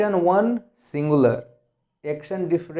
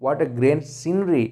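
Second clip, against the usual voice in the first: admiring wow; much slower than usual. Shown as a demonstration. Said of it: "so we say".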